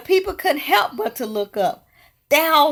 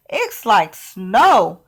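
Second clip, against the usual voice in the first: slow, dreamy marvel; slow wonder; 3 dB louder, much slower than usual. Acted. Elizabeth twirling in falling popcorn, slow dreamy wonder. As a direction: draw it out in wonder.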